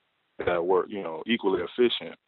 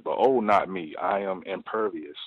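smug imitation. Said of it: "That's, that's exactly how she said it".

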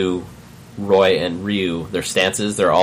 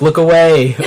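laughing; 8 semitones higher, 7 dB louder than usual. Retold or imitated. Quoting tweets, laughing.

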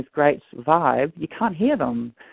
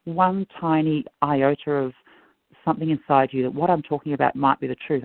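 pleading. Retold or imitated. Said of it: "and I begged him".

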